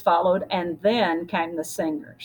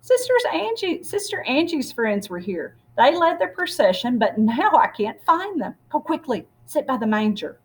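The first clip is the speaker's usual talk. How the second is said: excited priest; 5 semitones higher than usual. Acted.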